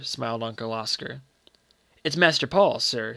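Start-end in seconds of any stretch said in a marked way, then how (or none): 2.0-3.2 mildly reverent, confiding; understated awe before the master; secret religious voice. Acted. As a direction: confide it like an article of faith. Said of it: "in a secret religious voice".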